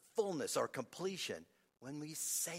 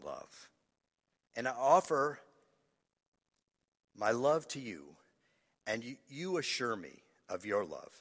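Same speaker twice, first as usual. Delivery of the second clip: choked-up prayer. Real, not acted. Preacher reading his written prayer of love, choked up. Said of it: "I don't cry every time I read these things".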